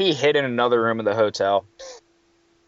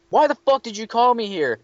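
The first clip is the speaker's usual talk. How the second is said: higher, mock-indignant; mock annoyed boss; 10 semitones higher than usual. Maintenance guy pretending to be confused at the clerk, higher and mock-indignant.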